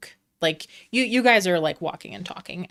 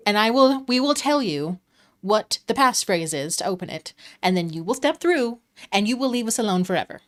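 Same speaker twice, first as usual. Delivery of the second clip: higher and louder, grandly pompous; exaggerated Mister Light; 3 semitones higher, 4 dB louder than usual. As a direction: point and declare it like a showman. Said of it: "he points at it, like, really exaggerated".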